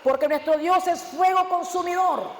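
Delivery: slow, deliberate reading of the verse; measured verse read from the pulpit; slow scripture reading. Shown as a demonstration. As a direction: read it slowly, weighing each word. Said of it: "cuando dice".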